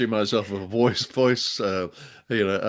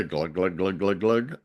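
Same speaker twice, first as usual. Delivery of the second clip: mock gulping; 2 semitones lower than usual. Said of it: "that's me".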